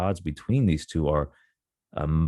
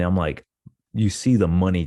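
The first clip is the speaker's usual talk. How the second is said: plain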